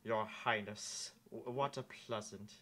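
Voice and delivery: a hint of Professor Snape; snaky knight voice. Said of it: "Maybe not so nasally".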